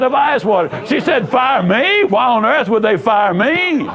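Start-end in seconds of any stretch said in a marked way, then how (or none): 1.3-3.9 higher, shocked outburst in the retold woman's voice; mock-shocked, pitched up as if you can't believe it; imitating her indignant surprise; stunned disbelief. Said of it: "She was stunned".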